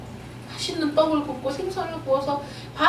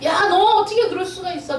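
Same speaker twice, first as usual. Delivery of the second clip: mildly raised scolding voice; mock scolding; 3 semitones higher than usual. Preacher imagining Jesus scolding the disciples, mock scolding. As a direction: act out a mild telling-off. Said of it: "야단을 치셨어요".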